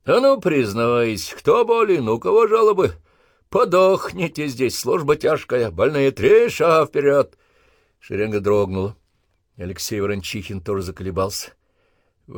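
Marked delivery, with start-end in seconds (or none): 0.0-7.4 parade-ground challenge. Acted. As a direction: challenge the line to step out. Sergeant addresses recruits.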